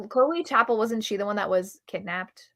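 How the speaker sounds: ordinary talk, nothing marked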